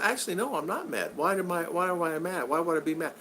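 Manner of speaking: mild protest. Retold or imitated. Father denying to his daughter that he's mad, mild protest.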